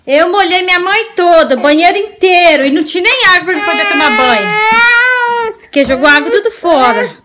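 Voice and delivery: lightly voiced naughty baby; speaking for baby. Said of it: "Baby, fala assim".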